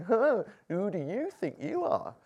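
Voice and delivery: mock scoffing question. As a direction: scoff it as a sneering challenge. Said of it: "asking it in a mocking way".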